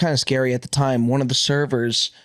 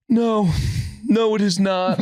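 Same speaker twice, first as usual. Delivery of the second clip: mock dry reply; 6 semitones higher, slower than usual. Imitating Diamonds' dry reply.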